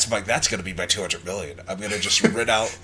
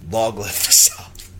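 slow, put-on Southern drawl; Southern accent; 3 dB louder, slower than usual. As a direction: proclaim it in a mock Southern accent. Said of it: "I'm just gonna do my southern".

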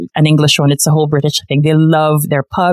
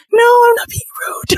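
much higher, laughing denial; laughing protest. Retold or imitated. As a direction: protest your innocence through a laugh. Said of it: "I'm like".

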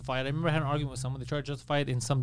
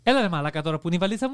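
Greek sing-song; much faster than usual. Shown as a demonstration. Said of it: "Yeah, like that".

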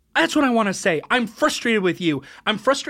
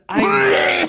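startled cry; 10 semitones higher, 4 dB louder than usual. Acted. Confession interrupted by crash.

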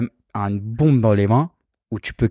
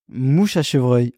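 slow; much slower than usual. Shown as a demonstration. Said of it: "un temps".

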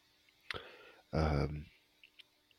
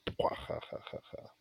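silent laugh; 6 dB quieter than usual. Shown as a demonstration. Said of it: "I can't go".

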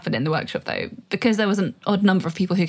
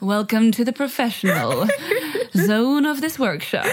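laughing mock welcome; 3 semitones higher than usual. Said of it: "mock announcement with laughter".

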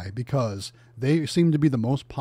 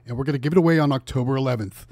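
Price is Right announcer. Acted. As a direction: hype up the prize like a TV host. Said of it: "Price is Right announcer voice".

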